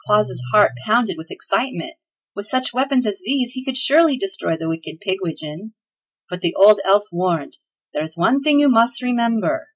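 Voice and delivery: reading a chapter aloud to listeners; lively storyteller voicing the elves; story narration. A narrator's reading. Radio host reads a Christmas story chapter, storytelling.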